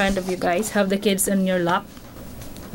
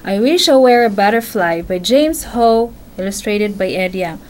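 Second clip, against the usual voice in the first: reading the title aloud. Shown as a demonstration. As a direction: announce the book to your little listener. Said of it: "just like this".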